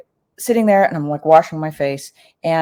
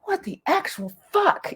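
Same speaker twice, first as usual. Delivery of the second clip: very high, slowed, laughing shock; cracking up in stunned disbelief; 5 dB quieter than usual. Retold or imitated. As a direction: squeal it out through laughter. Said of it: "And I was like".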